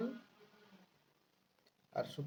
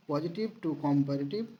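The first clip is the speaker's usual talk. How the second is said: slow dictation; much slower than usual. Shown as a demonstration. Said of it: "slow dictation".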